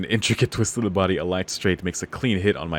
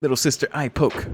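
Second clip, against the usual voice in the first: attack call; 6 semitones higher than usual. Acted. Little sister attacks again.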